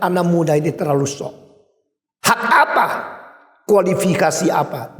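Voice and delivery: imitating an indignant theologian, rising sharply on "Hak apa?"; mock outrage at the young upstart; angry doctor. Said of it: "dia marah sekali".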